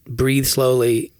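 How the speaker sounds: slow, spaced-out meditation instruction; imitating prayer guide's slow delivery. Quoting a prayer app's narrator, slowly imitated. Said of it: "He says".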